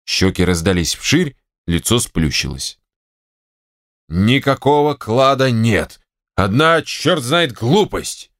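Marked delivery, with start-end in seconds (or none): 4.1-8.3 slow, emphatic angry outburst; angry shout. Acted. General alone on veranda, shouting in frustration. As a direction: spit it out in frustration. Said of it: "закричал Алексей Алексеевич".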